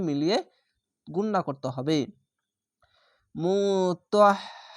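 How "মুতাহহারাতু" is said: very slow intoned মুতাহহারাতু; sung Arabic recitation; Quran recitation. Shown as a demonstration. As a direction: chant মুতাহহারাতু slowly, doubling the h. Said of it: "এটি মোটা অক্ষর".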